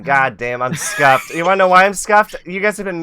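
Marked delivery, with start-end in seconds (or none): 1.3-3.0 exasperated. Real, not acted. Exasperated about muting mistake.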